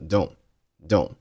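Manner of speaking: "don't" said as "don", ending on the n; "don't" with no burst at the end; dropped final T. Shown as a demonstration. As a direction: leave the t off "don't". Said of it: "同样，这儿的don't就读成了".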